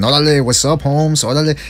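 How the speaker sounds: light Mexican-American street accent. Shown as a demonstration. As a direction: slip into Chicano neighborhood greeting. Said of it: "I go all Mexican".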